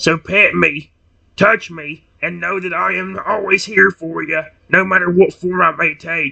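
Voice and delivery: low, unhurried monster voice. Reading a story aloud, voicing Retsy's reply, deep Retsy voice. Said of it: "I'm gonna be used to doing that deep voice".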